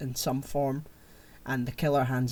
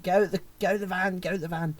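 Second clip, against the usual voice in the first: urgent yell in a badly faked impression; raised pitch, hurried mock impression; Morgan Freeman; 6 semitones higher, faster than usual. Retelling a film climax to the co-host, comic Freeman impression. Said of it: "Morgan Freeman impression".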